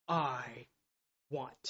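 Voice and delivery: a near-whispered I want; hushed confession. Acted. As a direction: let I hang, then breathe out want. Voicing the grumbling heart.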